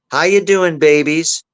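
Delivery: high, lilting greeting to pet birds; cooing to pets. Retold or imitated. Investigator greeting two pet birds.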